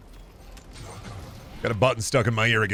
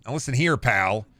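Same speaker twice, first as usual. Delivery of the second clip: lightly stern demo of a warning, ending on "pal"; a mild warning shot with "pal"; less forceful warning. Shown as a demonstration. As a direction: confront them, but keep some weight off "pal". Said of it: "Has less power than".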